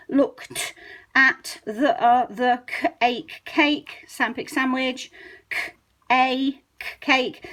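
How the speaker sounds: slow, halting sounding out of cake; child decoding word by word. Shown as a demonstration. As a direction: break cake into c, ache, cake. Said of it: "seeing all of the text as pictures of sounds".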